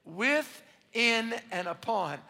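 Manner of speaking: slow, drawn out for the crowd to echo; slow call and response. Shown as a demonstration. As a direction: stretch every word so they can say it with you. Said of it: "Can you say that with me?".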